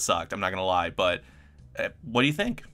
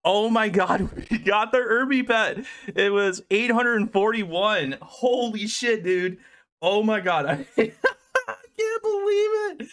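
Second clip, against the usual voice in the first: squealing, much higher joy with laughs, near tears on believe; real freaking out; 11 semitones higher, slower than usual. Real, not acted. Streamer reacting to the Irby pet drop, overjoyed squeals. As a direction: stretch every word out in stunned delight. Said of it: "I'm freaking out".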